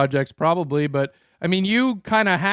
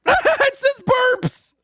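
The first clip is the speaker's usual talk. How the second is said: laughing; 3 dB louder, much slower than usual. Real, not acted. Laughing at AI reading burp.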